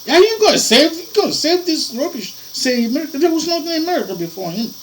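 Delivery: high, loud scornful challenge; the preacher scoffs at the claim of saving America, high and loud; outraged retort. Real, not acted. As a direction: throw it back at them in disbelief.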